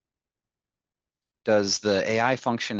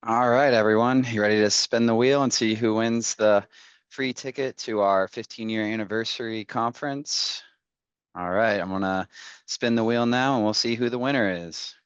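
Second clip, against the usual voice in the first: hyped giveaway announcement; 3 semitones higher, 5 dB louder than usual. Real, not acted. Hyped wheel spin and winner call.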